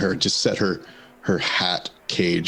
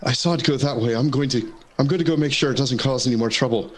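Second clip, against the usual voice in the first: slightly higher, hurried false reassurance; knight in character; 3 semitones higher than usual. Acted. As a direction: make a quick excuse and slip away. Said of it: "And I'll say".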